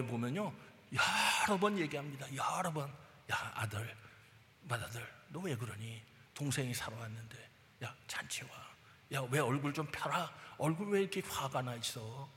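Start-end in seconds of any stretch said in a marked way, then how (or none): 3.3-12.3 pleading father. Acted. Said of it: "계속 권면한 거예요".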